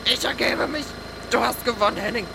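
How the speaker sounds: high, crushed gasping voice; squashed against the ceiling, giving up; squeezed strangled surrender. Acted.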